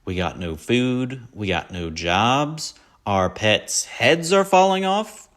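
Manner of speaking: slow, building to a high loud wail on the last line; Dumb and Dumber quote. Retold or imitated. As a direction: drag it out, then crack up high and loud. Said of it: "First one is".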